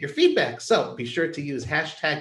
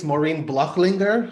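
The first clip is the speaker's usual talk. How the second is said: German accent; 4 dB louder, slower than usual. Shown as a demonstration. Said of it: "I'll give a shot at my little German accent there".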